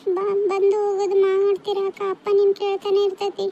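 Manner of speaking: put-on mildly weepy young-sister voice; tearful pleading. Younger sister begging elder sister to visit, mildly tearful. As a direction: plead with a slight catch of tears. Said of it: "ಎಷ್ಟು ಅಂತ ಅಳ್ತೀರಮ್ಮ ಇಬ್ರು".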